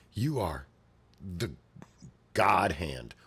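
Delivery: hushed whisper of God Hand; whispered name. Acted. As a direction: breathe the name in dread.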